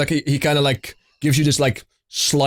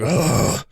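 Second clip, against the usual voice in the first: dwarf groan; 2 semitones higher than usual. Acted. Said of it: "this groan echoing out of the back".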